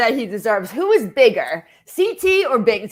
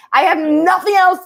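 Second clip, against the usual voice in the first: mocking Devin; 7 semitones higher, 4 dB louder than usual. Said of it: "He's like".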